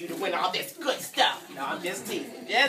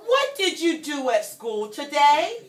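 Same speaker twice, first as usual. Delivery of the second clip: mom asking; 4 semitones higher, 3 dB louder than usual. Acted. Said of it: "Pete's mom asks him".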